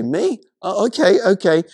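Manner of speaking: a mildly hammed-up, taken-aback agreement; startled compliance. Bystander realizing Jesus is talking to them, acted surprise.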